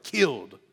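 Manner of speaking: "killed" stressed with a falling tone; emphatic. Retold or imitated. Retelling the student's one-word English answer, with emphasis. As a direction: lean firmly on "killed". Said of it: "He said it with emphasis".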